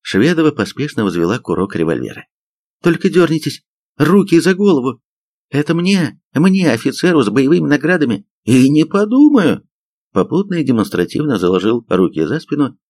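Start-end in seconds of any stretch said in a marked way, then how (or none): 2.8-5.0 high-pitched warning; threatening command. A narrator's reading. Sergeant with cocked revolver to suspects, threatening. 5.5-9.7 high-pitched, puffed-up outrage; indignant refusal. A narrator's reading. Decorated major refuses to raise his hands, indignant.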